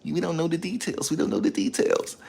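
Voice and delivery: high mocking parody of commenters; whiny mockery. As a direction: parrot them in a sing-song whine. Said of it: "Y'all know how y'all are".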